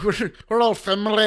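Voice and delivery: high, loud hammed-up villain; silly theatrical proclamation; mock rallying speech. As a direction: declare it grandly in a put-on villain voice.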